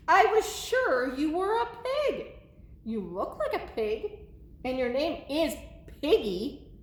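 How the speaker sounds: lightly voiced bewildered storybook elephant; puzzled Gerald. Gerald questioning Piggy about being a pig, mildly puzzled. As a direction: swoop up at first, then puzzle it out.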